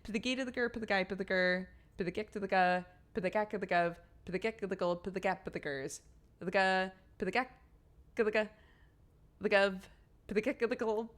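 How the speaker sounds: rapid nonsense syllables to the Peter Piper rhythm; gibberish. Pretend. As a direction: rattle the twister off as made-up gibberish. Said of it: "Say the Peter Piper tongue twister in gibberish".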